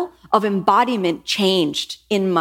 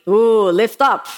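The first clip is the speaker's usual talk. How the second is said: slower, a bit louder stern command; more sternly; 4 dB louder, slower than usual. Retold or imitated. Teacher across the room, sterner second call. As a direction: press the point firmly. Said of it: "a little bit more sternly".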